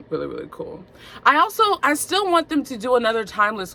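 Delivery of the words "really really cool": "Really, really cool" repeated softer and lower, falling; a quieter, dreamier repeat of "really, really cool"; softer echo. Shown as a demonstration. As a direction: echo yourself under your breath.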